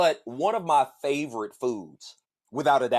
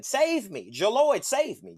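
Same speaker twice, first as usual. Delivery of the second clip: pleading wings; 6 semitones higher, slower than usual. Pretend. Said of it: "I can hear the wings screaming".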